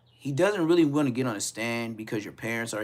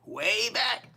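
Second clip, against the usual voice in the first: much higher, loud wistful cry; high-pitched wistful oh; nostalgic exclaim; 9 dB louder than usual. Real, not acted.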